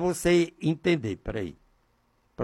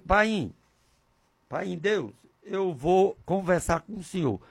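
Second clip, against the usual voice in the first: soft address to a father; quiet intimate prayer; 6 dB quieter than usual. Retold or imitated. Preacher recalls telling God he will talk, quiet intimate prayer. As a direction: speak softly, as if privately to God. Acts out his own private prayer.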